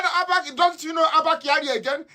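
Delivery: high, incredulous mock voice; mock insistent official. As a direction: act shocked that nobody knows him. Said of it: "He said".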